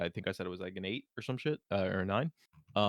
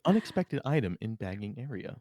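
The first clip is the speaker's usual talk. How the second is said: self checkout prompts. Pretend. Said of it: "It's like a Walmart".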